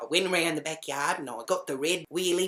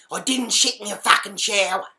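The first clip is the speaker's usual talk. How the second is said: raised, louder indignant denial; barking back; 5 semitones higher, 8 dB louder than usual. Retold or imitated. Accused housemate answers the woman questioning him, barking back. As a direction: bark it back in self-defence. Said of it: "he barks right at her".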